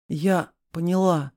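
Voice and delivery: slow, strained rasp; hoarse croak. A narrator's reading. Choked Vera croaking surrender. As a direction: croak it out with a squeezed throat. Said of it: "прохрипела она".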